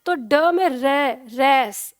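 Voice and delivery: ड्रेस broken up, रे and रेस said slowly with a firm र; slow syllable demo, र stressed; strong r. Shown as a demonstration. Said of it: "इस तरह से र का उच्चारण ज्यादा होता है".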